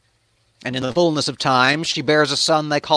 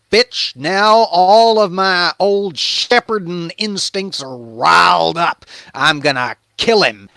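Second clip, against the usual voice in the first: mock outrage; 4 semitones higher, 5 dB louder than usual. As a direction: rage like a riled-up shepherd swearing vengeance. David raging at the rich man.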